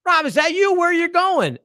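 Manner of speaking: imitating the comedian working the room; comic's crowd-work voice. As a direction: call out to the crowd like a club comic. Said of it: "he's like".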